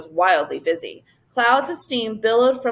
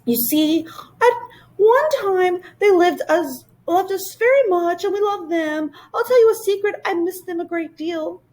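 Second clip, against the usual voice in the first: high voice going tearful; a touch of tears in a high creature voice; wistful creature; 9 semitones higher than usual. Acted. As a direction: let the loneliness catch in the throat. Whangdoodle turns wistful.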